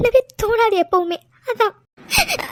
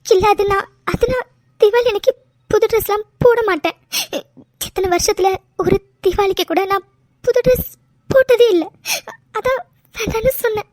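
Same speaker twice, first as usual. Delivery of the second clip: tearful. Acted. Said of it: "please டி, அழாதடி".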